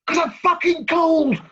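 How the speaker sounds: loud, slow, high shout; high, loud, exasperated cry; cub's outburst. Acted. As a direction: blurt it out like a freezing child. Punchline outburst of the cub.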